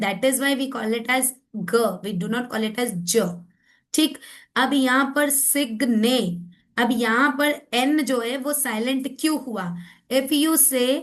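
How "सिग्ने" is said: सिग्ने in two beats, sig then nay; syllable by syllable. Shown as a demonstration. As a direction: separate सिग्ने after a hard g. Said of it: "ये एक अलग syllable हो गया". (सिग्ने को सिग - ने तोड़कर)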